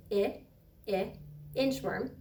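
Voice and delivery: short "I" sound repeated, then "inchworm"; isolated short i sound. Shown as a demonstration. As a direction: stretch the short vowel "I, I" before "inchworm". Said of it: "I says".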